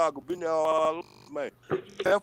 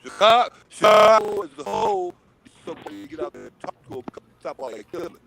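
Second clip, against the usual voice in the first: glitchy, choppy mic breakup; robotic cutting-out connection; scrambled voice; 2 semitones higher than usual. Real, not acted. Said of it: "Vern, your mic is cutting out".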